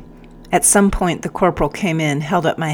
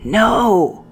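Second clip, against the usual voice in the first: repeated refusal; 6 semitones higher than usual. Acted. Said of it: "I repeated".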